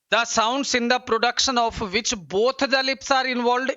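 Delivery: slow, deliberate reading aloud; exam question read. Acted. Teacher reading exam question to students, slow and deliberate.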